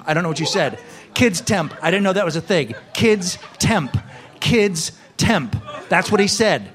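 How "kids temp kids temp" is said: higher, shouted repeat; exasperated shout. Acted. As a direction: shout it back in disbelief. Repeating his order, louder.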